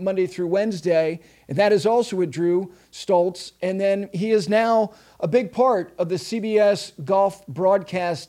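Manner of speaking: polished show-opening read over music; podcast host intro. Acted. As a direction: introduce the guest like a broadcast host.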